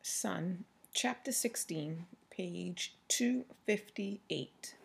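unvoiced, soft chapter title; whispered heading. Real, not acted. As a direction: whisper the page number aside.

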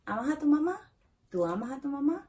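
"mamá" rising high at the end of "¿Amas a tu mamá?"; rising question tune. Shown as a demonstration. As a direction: lift the pitch on "mamá" to make it a question. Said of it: "Just raising the tone".

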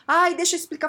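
hammed-up eager excuse; mock pleading. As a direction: act out an urge to explain. Acted urge to justify herself.

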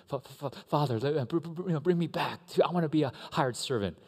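halting, stuttering apology to his father; stammering son. Acted. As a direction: stumble through the practiced apology. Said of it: "the practice speech that he was gonna do".

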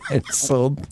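slow, laughter leaking through; trying not to laugh. Real, not acted. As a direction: keep a straight face and fail. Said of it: "you a straight face right now".

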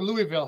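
Louisville said as LOO-ee-vil; EE-middle Louisville. Shown as a demonstration. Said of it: "How do you say it?".

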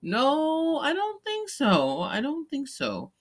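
high, drawn-out no way; laughing off the idea that they were mating; incredulous denial. Real, not acted. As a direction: squeak out a doubtful denial.

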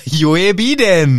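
incredulous, laughing outcry; laughing correction. Real, not acted. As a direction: burst out laughing with the name. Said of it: "Dumm von dir".

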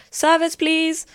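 high, loud kitchen call; chef calling out. Retold or imitated. Chef at the restaurant counter, mock loud call for service. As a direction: imitate a chef calling for the waiters. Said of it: "watch the chefs chefing everything up".

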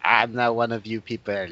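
haughty Frenchman, lightly done; snooty French refusal; mock French accent. Snubbing the British as a Frenchman, mock French accent. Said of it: "speaking in the French accent".

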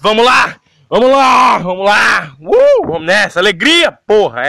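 loud, pumped-up cheering; hype shout. Real, not acted. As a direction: fire yourself up, shouting. Hyping himself up. (gritando empolgado)

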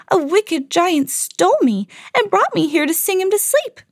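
high sweet voice of the harp; sing-song it like a gentle harp; golden harp. Acted. Harp to the farmers, a high sweet voice. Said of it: "she explained".

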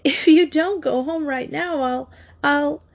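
high, angry spitting words; spat out. A narrator's reading. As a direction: spit it out in fury. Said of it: "spit out".

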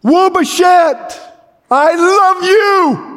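high, slow and tender, as if from far above; voice from heaven. Retold or imitated. A heavenly voice speaks to the dying man, high and slow. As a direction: call his name gently from heaven. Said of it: "he heard a voice from heaven".

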